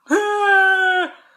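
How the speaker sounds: loud, high mock wail; sudden hammed-up release of noise; mock outburst. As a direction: let it all out in one big high cry. Acts releasing pent-up feelings at home.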